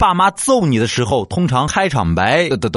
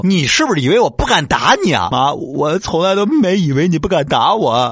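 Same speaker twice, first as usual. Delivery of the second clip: mock angry mom; 7 semitones higher than usual. Mom threatens child.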